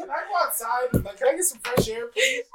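put-on pleading kid. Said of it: "that kid who, like, got in trouble".

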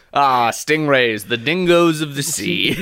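slow, savoured nature narration; David Attenborough. Acted. Documentary narrator introducing stingrays, Attenborough impression. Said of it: "David Attenborough".

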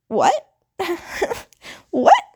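high-pitched, incredulous question with a laugh. Retold or imitated. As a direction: squeak it in disbelief, laughing between. Retold disbelief at mom's remark.

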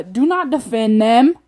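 loud, exasperated order; exasperated demand. Real, not acted. Ranter to a friend making excuses, exasperated demand. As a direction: firmly cut off the excuses. Ranting at people who defend offenders.

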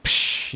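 short hissed "psh" for breaking glass; vocal crash effect; imitated glass break. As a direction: make a quick burst of shattering noise. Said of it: "like a g-, a glass break".

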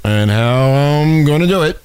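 drawn-out campaign-trail speech impression; Obama. Host mimicking him on the campaign trail, put-on accent. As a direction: stretch it out like a speechifying candidate. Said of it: "When he talked like this?".

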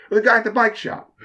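just state it, as the owner; owner's matter-of-fact answer. Retold or imitated. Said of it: "He's like".

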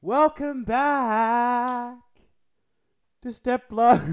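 announcer intro. Retold or imitated. Friend mimics the intro.

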